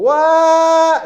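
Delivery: high loud stretched wow with a laugh. Pretend. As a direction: marvel at it, half laughing. Teacher acting ball sweeping area.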